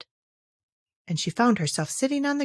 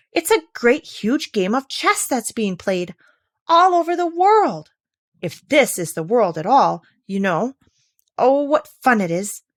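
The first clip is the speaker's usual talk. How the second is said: eager, climbing voice with leaps up; rushing with childish excitement; excited; 4 dB louder than usual. Acted. Alice dreams aloud of playing, excited. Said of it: "her heart began to beat quick with excitement".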